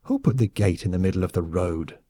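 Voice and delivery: put-on drunk woman cursing in German accent; slurred, cursing rural German accent; rustic German dialect. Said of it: "cursing in a rustic German dialect".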